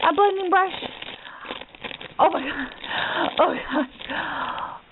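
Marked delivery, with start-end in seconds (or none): 2.2-4.8 awed whisper. Real, not acted. Awed unboxing, breathless reaction.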